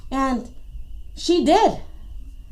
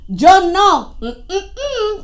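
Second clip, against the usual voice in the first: Tortuga refusing; 4 semitones higher, slower than usual. Acted. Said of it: "said Tortuga".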